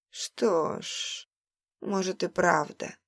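lightly huffing fat man; puffing. Acted. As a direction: puff the words out short of breath. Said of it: "пропыхтел толстяк".

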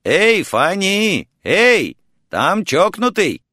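high, carrying holler; drawn-out "hey" call, pitched high; calling upstairs. A narrator's reading. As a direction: shout up to the floor above. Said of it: "крикнуть второму этажу".

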